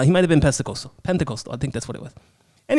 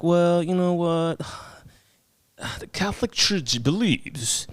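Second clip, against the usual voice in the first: imitating priest; 2 semitones higher, 4 dB louder than usual. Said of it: "is like".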